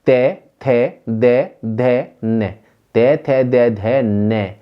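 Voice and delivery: ते थे दे धे ने repeated slowly and deliberately; teacher drilling ते थे दे धे ने; syllable drill. Shown as a demonstration. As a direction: drill ते, थे, दे, धे, ने for students to copy. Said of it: "आप खुद बोलकर देखिए".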